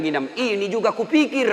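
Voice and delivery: high, loud comeback; mock exasperated imam; imitated imam's retort. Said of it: "Langsung dia bilang".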